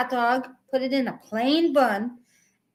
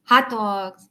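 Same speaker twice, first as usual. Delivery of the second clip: Chicago accent; 4 semitones lower, 3 dB louder than usual. Shown as a demonstration. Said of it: "I do hear it when you say hot dogs".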